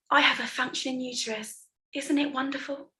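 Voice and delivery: mock sweetly, as the pregnant woman; mocking mother-to-be. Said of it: "as if to mock me, as if to say".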